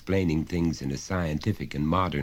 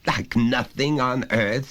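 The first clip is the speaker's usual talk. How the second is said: high, loud, lecturing father voice; a father talking down to his son, patiently insistent; stern father; 9 semitones higher, 6 dB louder than usual. Acted. Father pressing his small son, loud and high.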